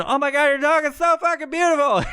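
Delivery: high, loud mock squeal of admiration; gushing beach admirer. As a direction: imitate a woman fawning over a dog. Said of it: "coming over to me and saying".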